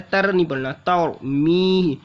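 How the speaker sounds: full-mouthed र, light त; spelled-out तर मी. Shown as a demonstration. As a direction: say तर मी slowly with a heavy र. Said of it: "रॉ को पूर्व पढ़ना है".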